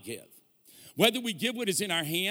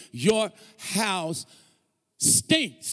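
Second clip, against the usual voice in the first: blunt announcement; much slower than usual. Retold or imitated. Telling smokers their house stinks.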